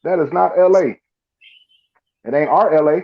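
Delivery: hammed-up outrage at the claim; indignant. Telling people about real L A, indignant. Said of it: "and I'm like".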